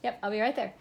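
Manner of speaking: calling out. Real, not acted. Calls back to interrupting child.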